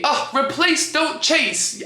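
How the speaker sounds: replace, don't chase in a high mock British accent; hammed-up British "don't chase"; bad British accent. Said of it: "I'm doing a terrible accent".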